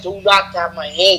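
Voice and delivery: low, imitated Japanese accent; mock Japanese accent with deliberate words; Nakamura. Host imitating a wrestler for co-hosts, mock Japanese accent. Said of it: "Nakamura was like".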